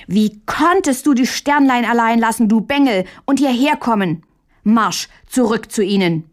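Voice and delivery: scolding bark at a little brother; yelling. Acted. Caught brother yells at Hähnchen, scolding shout. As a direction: yell at him to get back to work. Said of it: "schrie Mündlein es an".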